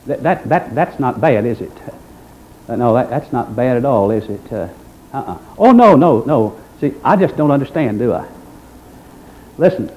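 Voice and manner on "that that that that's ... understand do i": ironic feigned innocence. Acted.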